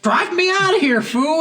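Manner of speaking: high yelled order; mock panicked yell. Player yelling to flee the shootout, high mock yell. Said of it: "and you're like".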